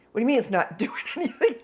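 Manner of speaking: quick, laughing mock disbelief; incredulous echo. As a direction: throw the words back in amused disbelief. Repairman throws her words back.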